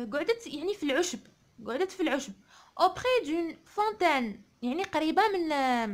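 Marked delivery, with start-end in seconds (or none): 2.8-4.4 slow, measured model reading; poem read aloud. Shown as a demonstration. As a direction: read it out slowly for pupils to follow. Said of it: "نقراو الشعر هذا مع بعضنا".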